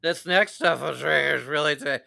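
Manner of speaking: half-hearted Southern twang for fun; joking Southern accent on a bourbon podcast; mock Southern drawl. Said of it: "why do we get Southern accents".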